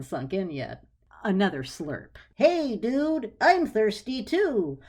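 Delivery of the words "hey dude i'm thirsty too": higher, slow, odd casual voice; a houseplant demanding a drink; talking plant. Acted. Tui the aloe plant asking Clarissa for a drink, casual and odd.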